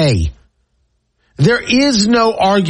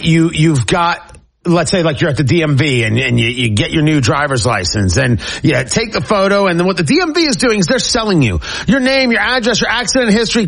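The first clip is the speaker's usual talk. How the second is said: upbeat host reading a sponsor spot; radio host's live ad read over music; 2 semitones lower, faster than usual. Acted. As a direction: sell the privacy service to listeners.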